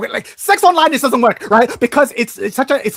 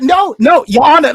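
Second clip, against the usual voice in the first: mock pleading, pitched higher and louder; mocking quote; 7 semitones higher, 8 dB louder, slower than usual. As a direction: whine it back at them like a caricature. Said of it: "that's not how she said it".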